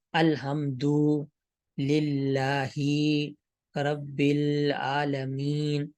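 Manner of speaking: slow, stretched الحمد للہ, every vowel held long; needlessly lengthened vowels. Shown as a demonstration. Teacher shows how people read, vowels dragged long in الحمد للہ. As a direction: drag out each vowel of الحمد للہ رب العالمین. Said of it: "اس طرح لمبا لمبا کر کے لوگ پڑھتے ہیں".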